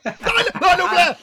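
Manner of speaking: high, loud excited blurt of a name; hammed-up keen cry of the name; mock eager shout. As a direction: leap in shouting it like a triumph. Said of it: "you bloody leap in with Lionel Blair".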